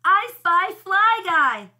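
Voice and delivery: high, loud, stretched and joyful; excited cry. A narrator's reading. Buzz finds his fly, crying out with excitement. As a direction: cry it out in delighted triumph. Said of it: "I read it with excitement".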